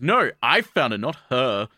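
a hint of a whiny little boy; mock bratty brother. Little brother claims the cat.

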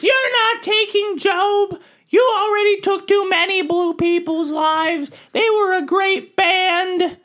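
heroic taunt. Acted.

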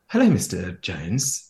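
lightly put-on camp welcome, drawn out; a hint of a camp teen at the desk; sweet check-in voice. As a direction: greet him sweetly and slowly. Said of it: "I'll do an impression".

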